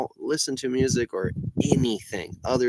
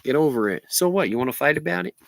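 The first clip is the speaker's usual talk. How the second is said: stoned, loose and drawling; stoner. Real, not acted. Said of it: "I'm stoned right now".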